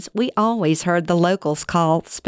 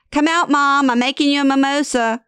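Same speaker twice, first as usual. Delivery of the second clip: higher, coaxing plea, speeding up; pleading; 9 semitones higher than usual. Retold or imitated. Son coaxing his mother out of her bedroom, pleading. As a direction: coax her out with a light, eager plea. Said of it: "Aaron pleads".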